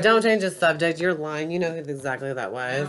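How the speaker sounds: angry. Real, not acted. Partner accusing of lying.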